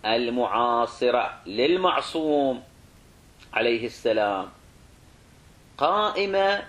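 slow dictation, pausing between phrases; dictation pace. Real, not acted. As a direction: draw out each phrase for note-takers. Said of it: "تدري تكتبها على راحتك".

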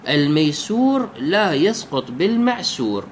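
the maxim spelt out slowly, each word set apart. Shown as a demonstration. Teacher spelling out the legal maxim to his students, slowly. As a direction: recite the rule slowly so students catch it. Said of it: "تسمى قاعدة".

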